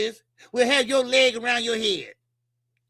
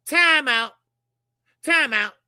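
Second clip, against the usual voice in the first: loud time out; 5 dB louder, slower than usual. Real, not acted. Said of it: "Let me take a time out".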